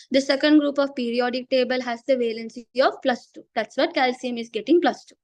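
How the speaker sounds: strained, tired voice from losing it; teacher losing her voice. Real, not acted. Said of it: "I'm losing my voice".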